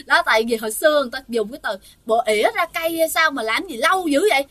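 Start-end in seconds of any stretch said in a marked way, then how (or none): 2.1-4.5 imitated scolding, higher and louder; grandmother's yelling. Grandmother shouting at the closed toilet door, impatient scolding. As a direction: call out impatiently like a fed-up grandmother. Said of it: "Bà nội chị la, la, la lên".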